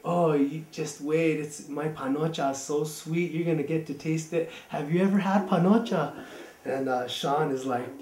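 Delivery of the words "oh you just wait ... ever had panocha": grandma savoring the suspense; teasing grandma. Retold or imitated. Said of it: "she's like".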